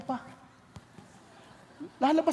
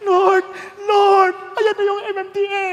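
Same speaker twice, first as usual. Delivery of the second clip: loud, higher panicked shout; panicked cry to Lord; 5 semitones higher, 14 dB louder than usual. Retold or imitated. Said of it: "ayaw pa mag-start".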